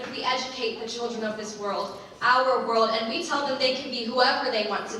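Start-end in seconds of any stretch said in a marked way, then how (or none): 2.2-2.9 "our" hit hard and loud; emphatic repetition. Acted. Speaker telling audience whose world it is, loud stress on "our". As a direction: punch "our" in "our world", louder. Repeats phrase to claim it.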